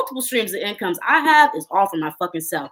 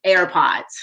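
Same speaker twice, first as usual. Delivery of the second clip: breathy under-the-breath jab; whispered mocking aside. Real, not acted. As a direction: drop to a whisper for the punchline. Sneering aside at mom's wish.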